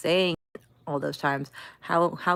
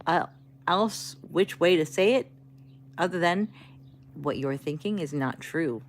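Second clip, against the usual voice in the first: third-try reassurance; 4 dB quieter than usual. Retold or imitated. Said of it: "Third tone, I'm like".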